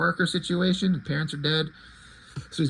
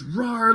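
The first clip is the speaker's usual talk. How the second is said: mock roar; 4 semitones higher than usual. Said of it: "roaring, kind of imitating the wolf".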